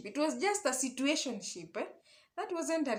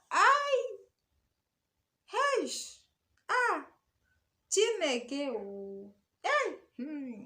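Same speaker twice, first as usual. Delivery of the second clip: shocked exclamations; 6 semitones higher, much slower than usual. Real, not acted. Seeing the girl's photos of his shoes, shocked cries. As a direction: gasp out the shock one cry at a time.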